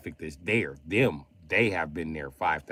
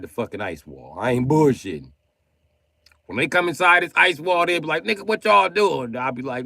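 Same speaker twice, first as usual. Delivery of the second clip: higher, louder mock Chinese accent throughout; 3 semitones higher, 5 dB louder than usual. Reading his friend Lee's texts aloud in a mock Chinese accent. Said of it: "why am I reading everything Lee said in Chinese accent".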